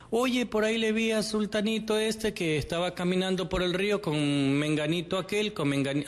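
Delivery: un toque más agudo, de chismoso; cuéntalo como quien trae un chisme; chisme contado. Retold or imitated. Imita a quien le cuenta el chisme. (leve imitación de un chismoso)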